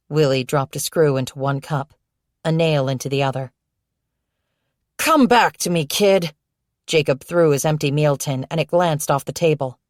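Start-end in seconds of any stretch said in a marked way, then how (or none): 5.0-6.3 urgent call. Acted. Jacob pleads, boy drifting away.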